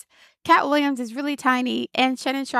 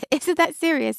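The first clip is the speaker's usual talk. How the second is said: laughing disbelief; 5 semitones higher than usual. Retold or imitated. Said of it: "but I'm like".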